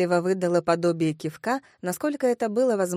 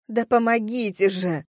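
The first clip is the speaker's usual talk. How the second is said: mildly raised, exasperated cry; insistent call; 3 dB louder than usual. Acted. Redhead calls up to woman at window, insistently. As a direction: demand help with some impatience. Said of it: "крикнула ей рыжая".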